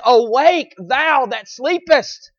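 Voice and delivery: slow, drawn-out plea to wake; pleading call. Acted. Holy Spirit pleading with a sinner, slow urgent call. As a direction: call out slowly, urging a sleeper to rise. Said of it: "starts pleading with that sinner and says".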